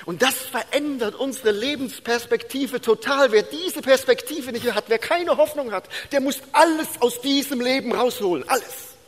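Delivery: hohe, drängende Predigerstimme; eindringliche Predigt. Real, not acted. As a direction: predige mit erhobener Stimme und Nachdruck. Predigt mit voller Kraft. (inbrünstig verkündigen, hoch gespannt)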